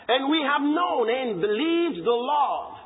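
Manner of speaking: slow, emphatic Bible reading; scripture reading. Real, not acted. Preacher reading First John aloud, slow and emphatic. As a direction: lay each word down for the church.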